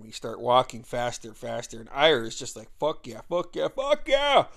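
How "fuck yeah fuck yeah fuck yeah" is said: hyped chant rising to a high, loud yell; imitated pumped-up cheer, exploding at the end; building excitement. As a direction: cheer harder with each repeat. Ira hyped, walking faster and faster.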